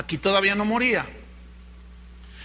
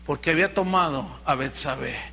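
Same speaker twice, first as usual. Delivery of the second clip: ordinary talk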